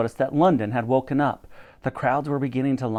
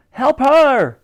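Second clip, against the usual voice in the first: much higher, louder urgent call; 11 semitones higher, 8 dB louder than usual. A narrator's reading. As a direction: cry out for help. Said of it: "called out Elsie".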